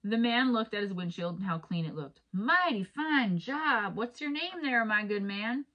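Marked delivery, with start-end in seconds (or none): 2.3-5.6 high, drawn-out mock country drawl; put-on country accent. Driver praises the clean windshield, hammed-up country accent. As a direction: ham up a slow country accent, swooping up. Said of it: "Sorry, my accent's not that good".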